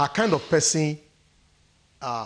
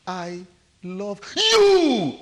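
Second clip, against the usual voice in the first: loud, high YOU at the end; stress on YOU; 4 semitones higher, 5 dB louder, much slower than usual. Shown as a demonstration. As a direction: build up to a drawn-out "you". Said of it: "The emphasis is on you".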